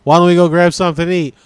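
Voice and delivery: fast, loud, run-together invitation; casual. Shown as a demonstration. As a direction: rattle it off in natural flow. Natural take of voice-text example.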